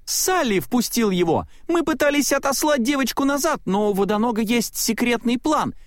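высоко, торопливо, выкладывая всё разом; затараторь, сдавшись; Майк сдаётся. A narrator's reading. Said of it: "сдался он". (Майк сдаётся и торопливо признаётся Селии, высоким голосом)

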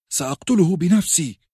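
put-on a boy's angry vow of revenge; angry Robb. Robb, red with anger, vows the guilty will pay, angry high threat. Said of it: "واستل سيفه ولوح به".

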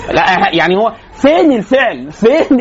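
slow, laughing where's-the-verb; half-laugh, searching slowly for the verb; laughing confusion. Retold or imitated. Lecturer mocks a learner lost in a verb-final sentence, slow and laughing.

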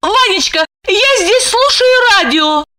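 terrified squeak. A narrator's reading. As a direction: squeak out an excuse, scared stiff. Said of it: "пропищала еле живая от страха".

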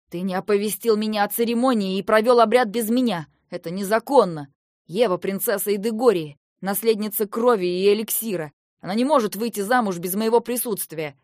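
loud formal indictment; stern protest. Acted. King confronting his sister's husband, stern and loud. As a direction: lay down the law.

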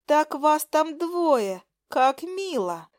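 high, slow sugary mockery; mocking. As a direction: tease them in a high, dragged-out voice. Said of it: "Продолжала глумиться моя".

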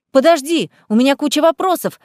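crying out. Acted. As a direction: call out after her. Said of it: "вскрикнула Лиза".

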